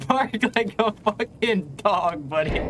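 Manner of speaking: drawn-out mocking command; calm turning angry. Demand after laughing.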